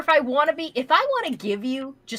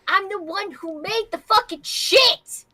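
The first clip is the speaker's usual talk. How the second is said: indignant; 7 semitones higher, 4 dB louder than usual. Real, not acted. Arguing she made the suit.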